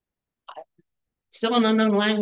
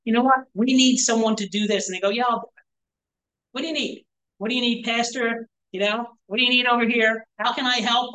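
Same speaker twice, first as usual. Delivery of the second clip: bright, eager helper voice, pitched higher; eager volunteer; 5 semitones higher than usual. Retold or imitated. Pastor voicing eager volunteers offering help. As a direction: play the keen church volunteer.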